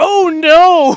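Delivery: frantic, very high, loud, panicked robot yelp. Retelling how a droid reacts on seeing Mace Windu: imitating a panicking droid. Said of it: "really panicking and dies immediately".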